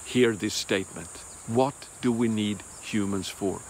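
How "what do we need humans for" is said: a softer, appalled repeat of the question; hushed disbelief, half to yourself; shuddering, quiet. Real, not acted. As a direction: say it low, as if it chills you. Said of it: "I shudder when I hear this statement".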